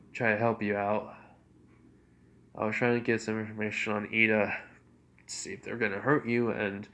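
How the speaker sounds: serious apology. Acted. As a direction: apologise earnestly but with restraint. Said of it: "Izuku can tell he's being serious".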